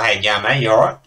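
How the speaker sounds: broad, nasal bogan Australian accent; nasal country Australian. Shown as a demonstration. Streamer showing how country Australians talk, nasal bogan accent. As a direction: put on a nasally rural Aussie twang. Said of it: "you get a bit more nasally".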